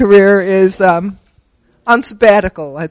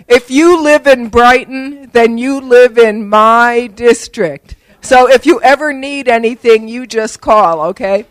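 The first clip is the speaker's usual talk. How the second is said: condescending politician; 2 semitones higher, slower than usual. Retold or imitated. Politician talks down to her.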